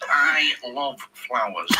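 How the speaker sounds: slow, drawn-out football manager voice; Clough impression. Manager declaring his love of flowers, slow and savouring. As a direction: stretch each word, imitating the manager.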